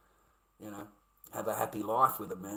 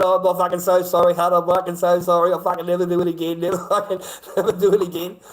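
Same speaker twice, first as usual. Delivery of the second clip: mock grovelling apology; 4 semitones higher, 11 dB louder than usual.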